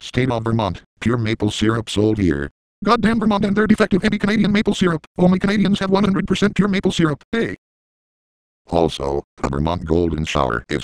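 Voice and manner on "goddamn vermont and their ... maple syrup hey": tag. Acted. Rant against Vermont.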